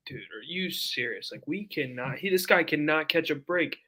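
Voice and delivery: soft, slow, mildly exasperated disbelief; retold dejection. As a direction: quietly replay being let down, stretching the words. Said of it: "I was really down".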